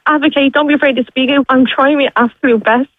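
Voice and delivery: real tears, voice breaking high; crying. Real, not acted. Mother tells radio host about her kids, crying. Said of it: "I'm sorry I'm crying".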